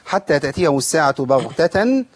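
measured tajweed recitation; Quran recitation. Shown as a demonstration. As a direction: recite carefully with drawn-out vowels. Teacher recites verse.

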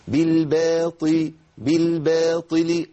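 drawn-out بالباطل, firm ط with kasra; breathless emphatic ta. Shown as a demonstration. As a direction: slowly chant بالباطل with a strong ط, no puff of air. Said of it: "نمنع النفس في الطاء".

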